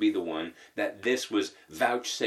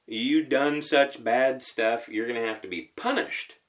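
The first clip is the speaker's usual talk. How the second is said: a hint of a cross master laying down punishment; mock punishing Jesus. Jesus mock-scolding Peter, a touch stern. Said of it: "I'm gonna say this facetiously".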